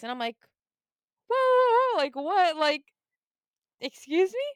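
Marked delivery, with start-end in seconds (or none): 1.3-4.5 high, loud alarmed protest; loud, incredulous reaction; retold disbelief. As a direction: halt everything in indignant shock. Retold shock at cancelled trade.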